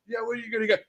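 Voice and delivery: shouting. Retold or imitated. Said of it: "We're like".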